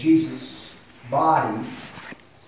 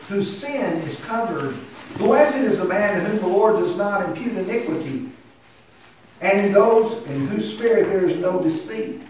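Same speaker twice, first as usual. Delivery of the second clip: raised, earnest reading with a touch of pain; pained psalm reading; 6 semitones higher, 4 dB louder than usual. Acted. Preacher reading David's psalm to congregation, mildly pained and earnest. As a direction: read it as David's heartfelt confession. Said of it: "You can hear the pain in his voice".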